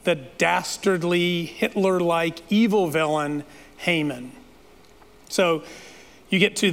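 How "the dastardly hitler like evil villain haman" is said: a storyteller's teasing build to Haman; dramatic reveal. Shown as a demonstration. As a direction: unveil the villain with a lingering pause. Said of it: "wait for it".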